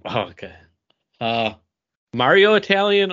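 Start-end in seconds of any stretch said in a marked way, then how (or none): 2.1-3.1 hammed-up Italian, higher and louder; mock Mario Italian burst. Shown as a demonstration. Friend asks for a Mario Italian voice. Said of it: "can we get a dramatic reading".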